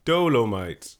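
loud, slow, drawn-out hype; hype announcer. Pretend. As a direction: announce it like a movie trailer. Hyped intro of the episode's movie.

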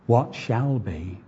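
slow, quiet stress on "What shall be". Shown as a demonstration. Preacher repeats the quote's last words to his church, slowly stressed. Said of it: "See that?".

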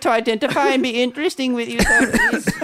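Oliver Twist begging. Acted. Mocking millennials as Oliver Twist, high pleading beggar. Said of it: "millennial Oliver Twist, new character".

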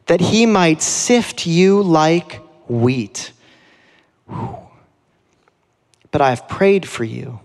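slow, weighty scripture reading as Jesus; solemn Jesus. Acted. Preacher voicing Jesus warning Peter, slow and solemn. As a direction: lean into each word like a grave warning. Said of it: "he says this to him".

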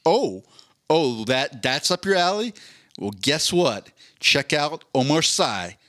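lightly voiced sales pitch; a playful mock recommendation from the algorithm; hint of an eager promo voice; Netflix blurb voice. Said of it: "and it's like".

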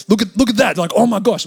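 loud, mock-horrified exclamation; retold shocked reaction. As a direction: act out startled onlookers, loud and lifted. Retold reaction to bent finger.

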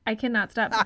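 burping mid sentence; talking while burping. Real, not acted. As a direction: talk through burps. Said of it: "I can't stop burping".

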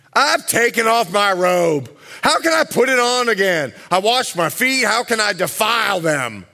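lightly voiced annoyed wife; a hint of a put-out bride. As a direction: read it as a grumpy refusal. Bride refusing, voiced role.

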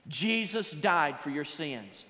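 each word laid down slowly; slow it right down and weigh every word; slow emphatic statement. Shown as a demonstration. Preacher stating the gospel to his congregation, slow and weighty. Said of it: "That's how I would say it today".

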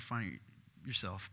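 ordinary delivery

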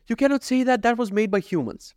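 high-pitched mock protest; mocking a complainer. Mocking a critic's argument.

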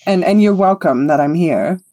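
lightly voiced haughty performer; self-important bard. Conceited bard condescending to a lute-playing elf, lightly grand. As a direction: grant them the honour of your presence.

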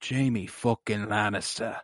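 slow, dry, drawn-out name; weary Bronn. Retold or imitated. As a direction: say the name like a curse, slowly. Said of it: "And Bronn's like".

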